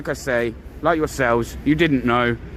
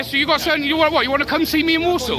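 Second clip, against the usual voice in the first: raised, higher challenging voice; heated dare at the officer, pitch raised; angry challenge; 4 semitones higher than usual. Real, not acted. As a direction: dare him to come, voice up.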